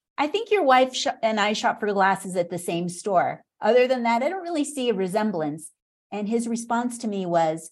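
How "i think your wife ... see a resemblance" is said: ordinary delivery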